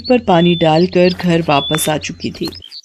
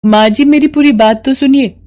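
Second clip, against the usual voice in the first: higher, brisk and decided; determined young bahu; 3 semitones higher than usual. Acted. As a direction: convince her mother-in-law. Mala explains. (दृढ़ निश्चयी बहू)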